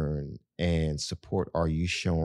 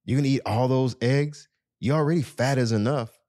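higher, needling tease; teasing mock jab; 6 semitones higher than usual. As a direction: poke fun at him like a nagging partner. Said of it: "they tease their loved ones".

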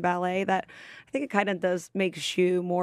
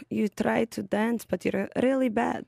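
light put-on Russian accent; 2 semitones higher than usual. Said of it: "What does your Russian accent sound like?".

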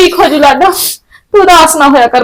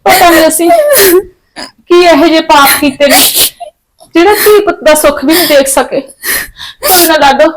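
tearful mother. Acted. Mother weeping over daughter's marriage.

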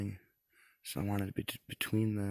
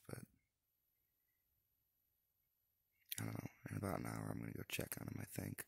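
hushed; 10 dB quieter than usual. Real, not acted. Quiet in the cold blind.

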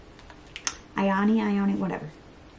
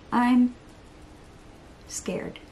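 scared little whisper. Real, not acted. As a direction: breathe the word out, voiceless.

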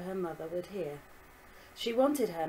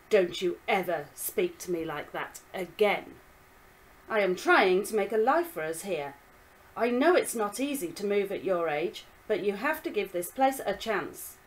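stern scolding; 6 dB louder than usual. Acted. Father scolds daughter.

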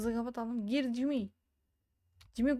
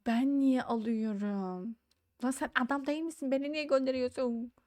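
protesting whine. Real, not acted. Player protesting being given the job, whiny. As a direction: object with long dragged vowels. Protesting an assigned errand in game.

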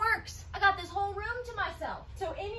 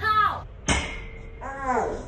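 hit my funny bone; 4 semitones lower, 4 dB louder than usual. Real, not acted. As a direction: yelp from a knocked elbow. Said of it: "I hit my funny bone".

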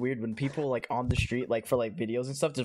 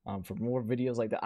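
monotone. Shown as a demonstration. Showing friends his usual outro, monotone. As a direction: sign off without any excitement. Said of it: "I have a monotone tone".

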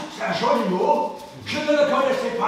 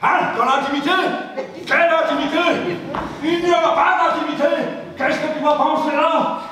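higher, indignant questioning; indignant objection; 3 semitones higher, faster than usual. Acted. Man objecting to talk of intimacy, indignant. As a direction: object sharply, pitch climbing.

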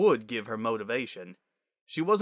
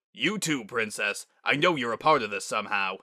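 stern accusation; 3 dB louder than usual. Acted. Father turns on Twilight.

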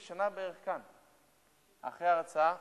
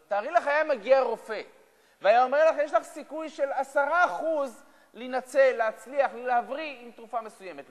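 raised voice; 8 semitones higher, 12 dB louder than usual. Retold or imitated. Imagined doctor giving odds.

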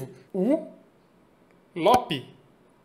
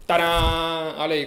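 tadã reveal; 2 semitones lower, 4 dB louder, much slower than usual. Pretend. Reveal of the envelopes.

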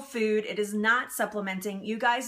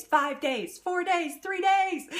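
rising countdown; 9 semitones higher, slower than usual. Pretend.

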